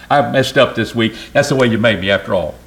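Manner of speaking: quick, breezy mock excuse; excuse-making prayer. Preacher mimicking a lazy prayer, mock breezy excuse. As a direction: brush it off lightly, as if God should shrug. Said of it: "I'm not gonna shade it and say".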